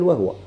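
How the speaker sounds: "وهو" said wah-wa, h without a vowel; "وهو" in two syllables; silent h vowel. Shown as a demonstration. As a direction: run h straight into w in "وهو". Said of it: "يجوز يتسكن".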